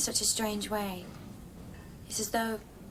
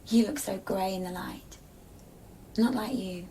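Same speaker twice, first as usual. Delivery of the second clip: whisper. Acted.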